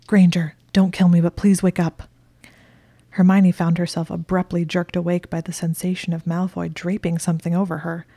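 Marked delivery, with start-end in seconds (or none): 0.1-2.0 loud, urgent plea; urgent call. Acted. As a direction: shout her awake, pleading. Malfoy urgently waking her.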